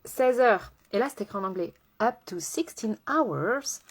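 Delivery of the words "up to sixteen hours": slow, drawn-out French-accented English. Shown as a demonstration. Reading the English label to viewers, slow French-accented English. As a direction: read it out slowly in showy French-accented English. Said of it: "vous adorez mon accent anglais".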